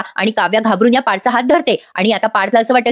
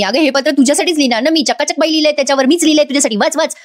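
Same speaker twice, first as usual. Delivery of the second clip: higher-pitched acted urging; coaxing insistence; 5 semitones higher than usual. Husband urging his wife to read his letter, coaxing. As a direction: press her eagerly, pitched up.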